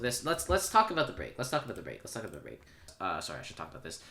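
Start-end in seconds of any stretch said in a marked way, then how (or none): 0.2-2.6 fading repetition. Acted. Repeats phrase, fading each time.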